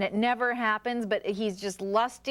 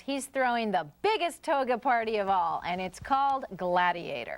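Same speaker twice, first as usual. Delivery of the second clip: scripted movie-review intro. Acted. Host introducing the next film to listeners, scripted announcer read. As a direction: sell the epic like a radio promo.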